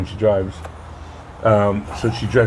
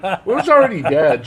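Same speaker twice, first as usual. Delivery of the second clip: high voice through a laugh; 9 semitones higher, 3 dB louder than usual. Retold or imitated. Telling daughter the cat was dead, laughing high. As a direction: giggle it out up high. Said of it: "I'm like".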